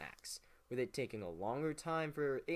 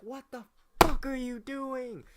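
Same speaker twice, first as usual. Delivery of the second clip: much higher, louder hammed-up yell; mock furious Hamilton; 10 semitones higher, 10 dB louder than usual. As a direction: bellow it like an outraged Hamilton. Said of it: "Hamilton went and was like".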